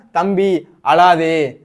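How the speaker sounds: very slow, stretched-out plea; slow acted comforting of little brother; drawn-out consoling. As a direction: draw out each word to console a child. Consoling a crying younger brother, acted.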